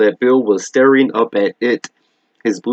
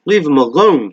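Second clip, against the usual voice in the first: scream; 5 semitones higher than usual. Acted. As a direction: yell to drive it off. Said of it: "she screamed at the spider".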